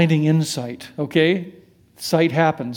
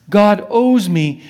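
mock entitlement; 4 semitones higher, 7 dB louder, slower than usual. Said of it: "Saul's old entitled view".

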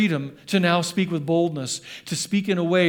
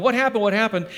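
excited crowd; 4 semitones higher than usual. Retold or imitated. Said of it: "the people came running, going".

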